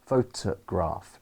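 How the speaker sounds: "photograph" with the first syllable stressed, middle reduced to a weak "tuh"; slow, natural "photograph", weight on PHO; correct word stress. Shown as a demonstration. Teacher modelling the word for students, correct stress. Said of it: "I put the stress on the t".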